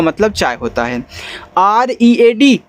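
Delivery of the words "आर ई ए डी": slow letter-by-letter spelling. Shown as a demonstration. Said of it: "रीड".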